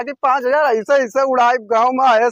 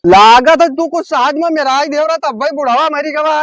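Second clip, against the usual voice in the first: loud, raised accusation; accusing shout; 3 semitones higher, 5 dB louder than usual. Acted. Son accusing the honey seller over father's death, shouting. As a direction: shout the suspicion out for all to hear. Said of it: "अरे यार ना चिल्लाओ यार".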